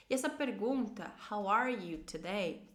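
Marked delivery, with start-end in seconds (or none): 1.3-2.7 slow English question for repeating; slow model phrase. Shown as a demonstration. Teacher invites learners to repeat with her, slowly. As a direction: say it slowly, word by word. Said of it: "pode repetir comigo também".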